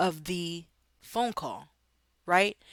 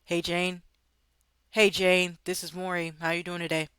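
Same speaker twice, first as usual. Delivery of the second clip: dull greeting. Shown as a demonstration. Sales agent greeting a client without enthusiasm. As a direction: sound like you hate your job. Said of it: "that doesn't sound like".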